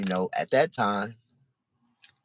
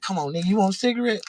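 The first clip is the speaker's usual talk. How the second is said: much higher, fast mocking question; taunting sneer; faster than usual. Doobie taunting the downed crackhead, fast and high. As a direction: rub it in while he kicks him.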